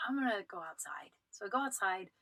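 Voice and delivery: whispered, slipping away unnoticed; hushed exit whisper. Retold or imitated. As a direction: breathe the words as you sneak out. Slipping out quietly.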